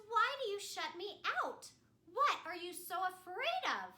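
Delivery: hurt and accusing; upset sister. Acted. Anna confronting her sister, upset and loud. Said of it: "And she says".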